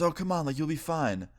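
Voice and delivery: light, high imitation of a woman coaxing; imitated mom's airy persuasion. Mom coaxes him in retelling.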